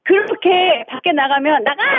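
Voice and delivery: half-hearted mock telling-off; attempted scolding. Caller rehearses for husband, mild mock anger. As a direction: practice scold lacking lift. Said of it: "톤을 올려야지".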